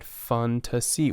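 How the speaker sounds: "Fantasy" said slowly with an F sound; "Fantasy" drawn out, opening with F; slow model word. Shown as a demonstration. Teacher slowly modelling the word fantasy. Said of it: "you would pronounce this as fantasy".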